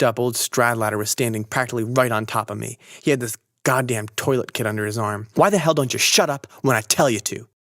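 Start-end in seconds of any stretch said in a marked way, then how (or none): 5.3-7.5 angry yell. A narrator's reading. Stradlater yells after knockdown.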